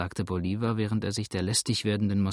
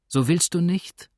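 high, loud, sudden question; quick cry; 7 semitones higher, 6 dB louder than usual. A narrator's reading. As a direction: burst out with the question at once. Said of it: "rief Georgine schnell".

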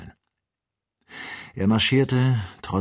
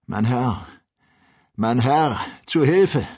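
desperate cry for help; 7 semitones higher, 8 dB louder, slower than usual. Acted. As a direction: call rising to a scream. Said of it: "schrie er".

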